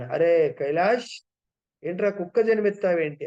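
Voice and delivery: astonished at the reborn friend; surprised call. Retold or imitated. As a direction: Narada calling out to the dog, surprised and loud. Narada recognizes friend as dog.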